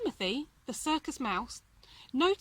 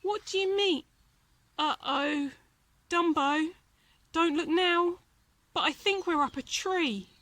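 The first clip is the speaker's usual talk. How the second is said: higher, louder sudden alarm; startled mouse; 6 semitones higher, 4 dB louder than usual. A narrator's reading. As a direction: gasp as he sees they are up a tree. Timothy realizes, alarmed.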